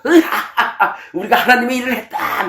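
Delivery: high, cackling boast; evil gloating laugh. Retold or imitated. Pharisees boasting they did God's work, high evil cackle. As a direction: cackle it out like a proud villain. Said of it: "막 이러는 거죠".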